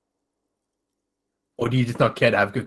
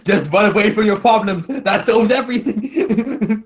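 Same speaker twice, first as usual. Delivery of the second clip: mocking high voice; 9 semitones higher, 3 dB louder than usual. Mocking NPC voice continues.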